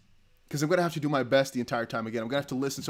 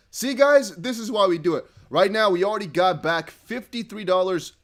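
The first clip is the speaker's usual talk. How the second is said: excited; 4 semitones higher, 6 dB louder than usual. Real, not acted. Celebrating the donation.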